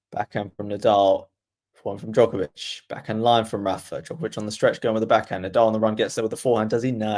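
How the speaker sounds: steady commentator call, shot by shot; play-by-play commentary. Acted. Streamer calling the rally for viewers, commentator voice.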